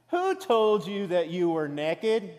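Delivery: slow West Texas drawl on naked. Retold or imitated. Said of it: "that West Texas drawl of naked".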